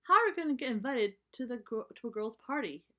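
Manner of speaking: put-on a touch of a worried young cub; puzzled cub. Cub voiced in read story.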